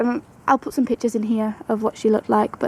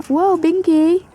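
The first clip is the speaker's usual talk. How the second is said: surprised; 6 semitones higher, 3 dB louder, much slower than usual. Real, not acted. Rabbit suddenly jumps.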